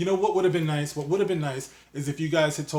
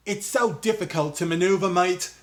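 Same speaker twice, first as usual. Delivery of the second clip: loose mock British accent, quoting Boyega; a hint of London 'mate' British accent; put-on British accent; 3 semitones higher than usual. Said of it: "I don't know what accent I'm doing now".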